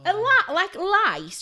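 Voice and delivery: high, loud, slow disbelief; horrified question. Retold or imitated. Beautician asking the client about lice, horrified. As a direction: stretch it out in appalled disbelief.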